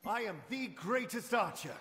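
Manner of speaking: grand, regal, boastful royal voice, very high-pitched. Voicing an archer character's voice line: regal-sounding voice. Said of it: "Sounds very regal".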